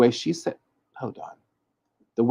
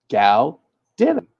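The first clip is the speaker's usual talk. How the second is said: slow careful pronunciation; 3 semitones higher, 7 dB louder, much slower than usual. Shown as a demonstration. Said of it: "That way you can see it".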